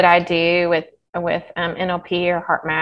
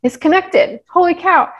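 louder, climbing high on connected and holy cow; retold amazed realization; 4 semitones higher, 3 dB louder than usual. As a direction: relive the aha moment, amazed. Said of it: "I was like".

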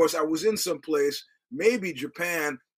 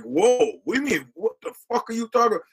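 mock outraged reply; 6 semitones higher, 4 dB louder than usual. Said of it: "I'm like".

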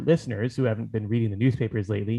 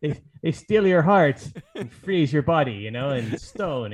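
hammed-up French accent, higher and louder, laughing through it; mock French accent; 3 semitones higher, 4 dB louder than usual. Podcast cohost jokes about a French villain, in a mock French accent. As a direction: ham up a bad French accent while laughing. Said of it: "Is that supposed to be your French accent?".

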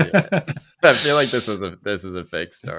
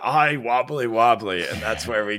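lightly voiced old man telling a tale; old white guy voice; 3 semitones higher than usual. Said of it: "some old white guy going".

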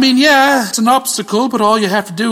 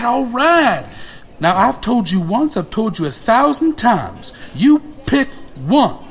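lightly voiced scolding grandmother, higher; sassy grandmother; 5 semitones higher than usual. Grandmother Violetta lecturing her grandson, mildly voiced scolding. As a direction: scold him like a stern old nana.

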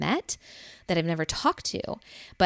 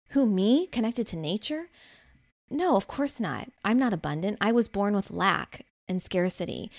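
mock self-doubt; 3 semitones higher than usual. Mocking a self-doubting inner voice.

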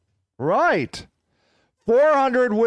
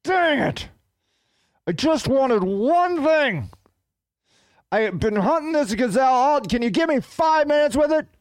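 a lightly voiced higher whiny lion; hungry lion begging the hyenas, whiny and higher; frustrated lion; 4 semitones higher than usual. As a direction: complain high like a cheated lion. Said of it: "He's like".

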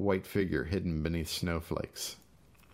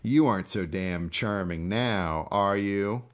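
louder, bitter jab; raging; 2 semitones higher, 4 dB louder than usual. Acted. Gus raging at his helpless brother, louder. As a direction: spit it at him in rage. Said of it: "rage spilled into his voice".

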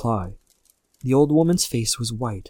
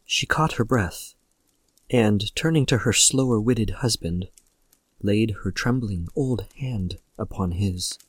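ordinary delivery

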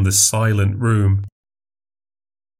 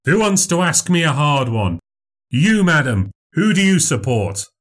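higher, bright showman voice performing for a crowd; showman memory act; 6 semitones higher than usual. Acted. Memorizer picks audience.

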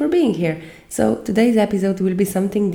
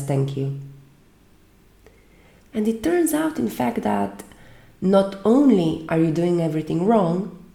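earnest recital with measured pauses between phrases; understated monologue delivery, phrase by phrase; dramatic monologue reading. Acted. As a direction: recite it as a speech, leaning on each contradiction. Reads out a film monologue.

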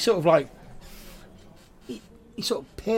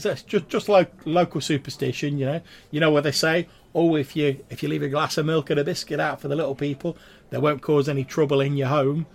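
higher, louder eager explainer; deferential local explaining; 4 semitones higher, 6 dB louder than usual. Acted. He tells a guest about local superstition, deferential, raised voice. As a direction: explain a local superstition brightly and loudly, pitched up.

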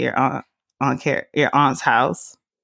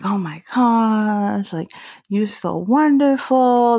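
higher, slow, drawn-out gushing; imitating gushing relatives; 6 semitones higher, slower than usual. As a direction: stretch it out like an adoring aunt. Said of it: "they're just like".

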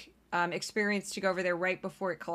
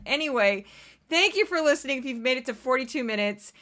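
normal talking voice

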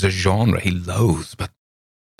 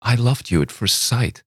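higher, heartfelt claim; ardent girl; 6 semitones higher than usual. A narrator's reading. Girl tells Campbell of love at first sight, ardent. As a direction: say it as simple truth.

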